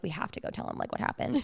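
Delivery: hushed unvoiced whisper. Friends plotting to tell the husband, whispered. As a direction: whisper it so he won't hear. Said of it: "And then we're like".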